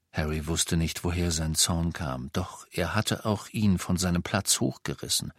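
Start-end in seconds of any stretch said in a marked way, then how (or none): none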